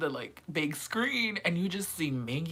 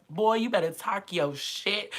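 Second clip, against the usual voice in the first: hype cheer; 5 semitones higher than usual. Retold or imitated. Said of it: "I was like".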